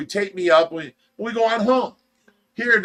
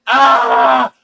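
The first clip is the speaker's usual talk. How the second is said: loud high yell of pain; loud retold scream in the truck; 6 semitones higher, 9 dB louder than usual. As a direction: scream while the monkey bites. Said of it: "driving down the highway screaming".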